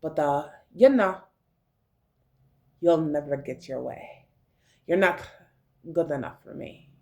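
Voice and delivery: put-on low Russian-ish accent with lilting line ends; vague Russian-like accent. Telling haters to deal with it, in a makeshift Russian-like accent. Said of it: "I don't even know what accent I'm speaking now".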